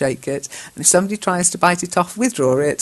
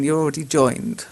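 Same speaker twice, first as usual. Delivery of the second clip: normal talking voice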